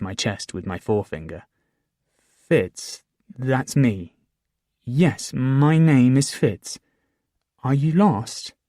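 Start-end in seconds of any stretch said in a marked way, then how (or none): 2.5-8.5 gentle reassuring. A narrator's reading. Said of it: "make my voice gentle and reassuring".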